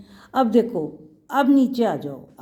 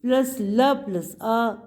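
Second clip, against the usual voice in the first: slow spelling out; slower than usual. Shown as a demonstration. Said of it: "अब ये ल".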